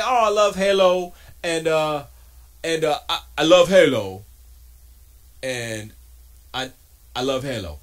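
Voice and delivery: loud gushing, lightly hammed; mock fanboy gushing. Mocking a host who claims to love Halo, loud. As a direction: belt out the fan's claim. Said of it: "he's like".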